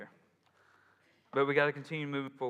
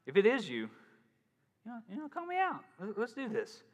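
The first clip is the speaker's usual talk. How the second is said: Peter calling out; 5 semitones higher than usual. Retold or imitated. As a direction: call out to the Lord, nervous but bold. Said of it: "and he goes".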